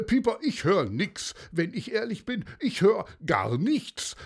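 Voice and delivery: lightly voiced puzzled reply; puzzled commissioner. A narrator's reading. Commissioner telling Pieper he hears nothing, mildly puzzled. Kommissar answers Pieper in dialogue.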